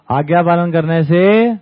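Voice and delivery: slow, drawn-out sing-song lesson; a teacher drilling the line into children; mock schoolteacher. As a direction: spell out आज्ञा पालन करने से slowly like a preachy teacher. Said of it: "बच्चों को पढ़ाना शुरू".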